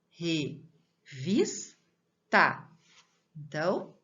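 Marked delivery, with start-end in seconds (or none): 0.1-1.8 Revista in three slow pieces, RE, VIS, TA; measured teacher's breakdown of Revista; syllable-by-syllable stress demo. Shown as a demonstration. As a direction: sound out Revista with long gaps between syllables. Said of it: "qual que é a sílaba?".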